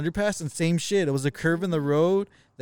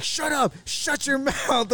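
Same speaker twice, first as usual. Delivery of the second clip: Jackie's high, sharp shut up, mostly imitating; half-laughing mock yell at the kid, pitched high; 10 semitones higher, much slower than usual. To the stranded guy, Jackie's high mock yelling. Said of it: "yelling at the kid".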